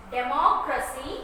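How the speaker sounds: democracy repeated evenly, stress on MO; careful model democracy, stressed on MO; stress on vowel. Shown as a demonstration. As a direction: hold the O in democracy. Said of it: "we are stressing with the vowels".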